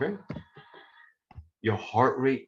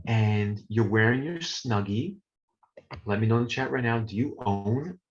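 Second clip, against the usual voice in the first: ASMR voice; 3 semitones lower than usual. Shown as a demonstration. Teacher to class, a touch of ASMR softness. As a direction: talk them into comfort like an ASMR video. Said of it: "now I'm gonna do my A S M R voice".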